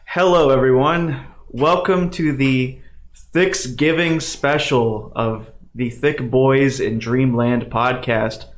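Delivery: used car salesman. Acted. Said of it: "he sounds like a used car salesman".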